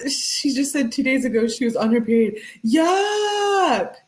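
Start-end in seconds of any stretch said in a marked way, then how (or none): 2.6-3.9 disgusted yuck. Real, not acted. Reacting to viewers about her period, disgusted. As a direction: recoil in disgust.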